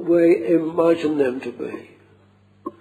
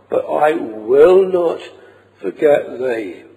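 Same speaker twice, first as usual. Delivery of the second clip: "I will not" pressed out firmly, "forget thee" falling away; stress on "I will not". Shown as a demonstration. Preacher quoting the Lord's promise, emphatic on "I will not". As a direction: lean hard on "will not", then ease down on "forget thee". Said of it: "see the emphasis on that".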